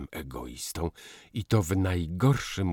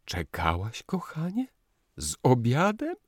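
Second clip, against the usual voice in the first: moved; 9 semitones higher, 4 dB louder than usual. A narrator's reading. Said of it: "spytał wzruszony".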